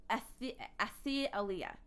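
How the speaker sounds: "Athaliah" slowly, with a false start on "Athi-"; sounding out name. Real, not acted. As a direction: stumble into "Athaliah", trying an "ee" after the "th".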